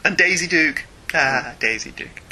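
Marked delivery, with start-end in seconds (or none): 1.1-2.2 slow, lower, dreamy sigh of admiration; fond reverie. Real, not acted. Host remembers a favourite Southern woman, slow and dreamy. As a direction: linger fondly with a slight laugh. Fondly recalling women with Southern accents.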